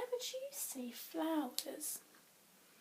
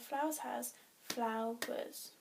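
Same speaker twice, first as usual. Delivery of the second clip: "flowers" slowly split into two beats, flow-ers; counting syllables; 4 dB quieter than usual. Shown as a demonstration. Teacher checking how many syllables flowers has, slowly split. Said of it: "how many does flowers have?".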